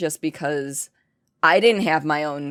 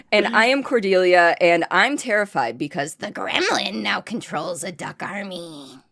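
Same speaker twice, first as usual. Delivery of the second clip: high squeaky gremlin voice; 4 semitones higher than usual. Acted.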